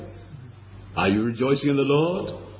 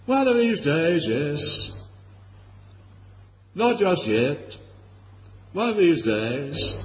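mock complacent; 3 semitones higher than usual. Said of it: "piously and sanctimoniously".

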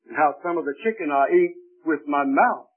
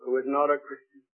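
soft, lower repeat; quiet echo; 3 semitones lower, 6 dB quieter than usual. Real, not acted. Preacher repeating the point softly to the congregation. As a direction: let it sink in quietly.

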